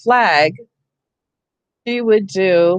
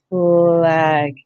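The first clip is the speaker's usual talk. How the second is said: stretched word; 3 semitones lower than usual. Shown as a demonstration. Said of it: "you found that sound".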